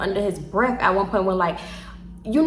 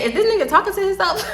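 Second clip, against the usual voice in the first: shocked; 9 semitones higher than usual. Retold or imitated. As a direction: ask it in total disbelief. Loud shocked question at club.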